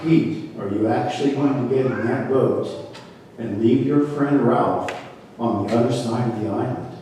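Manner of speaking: lightly voiced voice of God, speaking down to Pete. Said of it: "this is my God voice".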